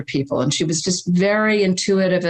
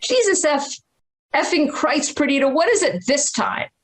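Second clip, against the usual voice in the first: much higher, lightly voiced psychic passing on the curse; psychic quoting father; 7 semitones higher than usual. Psychic relaying the dead father's words to the mother, in a high voice. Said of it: "And she said".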